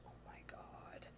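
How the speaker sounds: barely audible, slow whispered gasp; hushed fangirl awe, retold; awed whisper. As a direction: whisper it slowly, overcome with awe. Awestruck reaction to game scenes.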